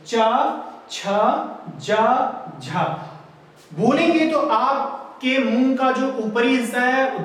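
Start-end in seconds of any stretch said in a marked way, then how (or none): 0.1-2.8 चा, छा, जा, झा one by one, tongue on the palate; palatal consonants demonstrated. Shown as a demonstration. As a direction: sound out चा, छा, जा, झा separately. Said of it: "आपकी जीभ कहां स्पर्श कर रही है".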